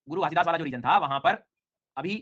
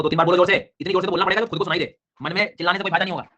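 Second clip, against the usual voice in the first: loud urging; 3 semitones higher, 5 dB louder than usual. Real, not acted. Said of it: "urging class to speak loudly".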